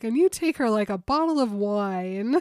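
laughing through the quote; can barely get it out for laughing; giggling while quoting Jacob. Retold or imitated. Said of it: "Jakey's like".

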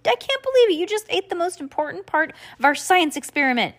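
high upset outburst; angry. Acted. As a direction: scold him in a high shrill voice. Angry sister scolding.

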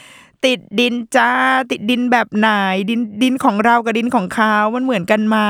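mock the star's claim with a sneer; sarcastic mocking tone. Shown as a demonstration. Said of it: "น้ำเสียงต้องแบบ".

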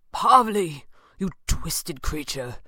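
ringing accusation. A narrator's reading. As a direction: call out the name, then condemn slowly. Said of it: "Falcone's voice rang out".

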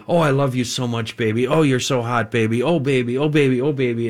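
lightly voiced cooing lover; a hint of breathy lovey-dovey boyfriend; sweet nothings. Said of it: "it was a musician".

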